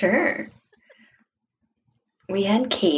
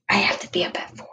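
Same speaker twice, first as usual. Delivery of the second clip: whispering while hiding; faster than usual. Retold or imitated. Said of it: "he's like".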